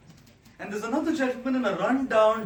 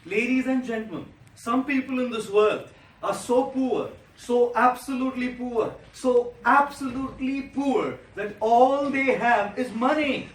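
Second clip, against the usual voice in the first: emphatic build; 3 semitones higher, 5 dB louder than usual. Acted. Sermon build to punchline.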